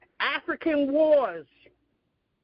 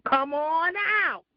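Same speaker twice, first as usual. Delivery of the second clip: teasing call-out; 4 semitones higher than usual. Real, not acted. Calling out silent caller.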